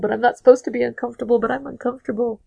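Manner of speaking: hurried middle, then a small helpless finish; flustered discomfort. Retold or imitated. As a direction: imitate a man squirming and repeating himself. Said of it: "making Jim more and more, like, crazy".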